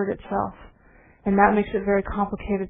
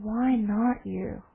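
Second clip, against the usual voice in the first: calm question; much slower than usual. Retold or imitated. Old man answers gently.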